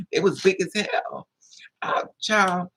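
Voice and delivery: whispered confidential aside; hushed aside. Real, not acted. Telling the audience how big they were, whispered. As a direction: lean in and whisper it.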